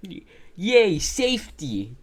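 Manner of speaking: high squeaky yay; mock cheer. Mocking the streamer mode message.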